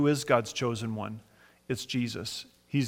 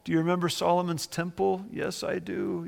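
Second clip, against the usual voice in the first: high, mildly mock-tearful reminiscing; pitched-up imitation of a lament; imitated weeping; 5 semitones higher than usual. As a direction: lightly act out old mourners remembering. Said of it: "they're just weeping".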